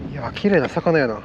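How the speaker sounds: casual, unintended Kansai lilt; odd Kansai dialect. Real, not acted. Angler admiring a pretty fish, odd Kansai dialect. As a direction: slip lightly into Kansai dialect. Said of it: "なんかずっと変な関西弁で喋ってる".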